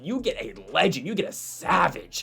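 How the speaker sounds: a hint of a podcast host making a point; half-hearted imitation of a fight commentator lecturing; Joe Rogan impression. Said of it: "I'll try to do my best Joe Rogan impression here".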